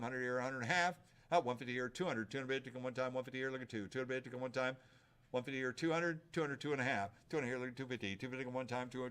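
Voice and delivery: rapid rhythmic bid calling; auctioneer. Real, not acted. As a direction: rattle off the bids like an auctioneer.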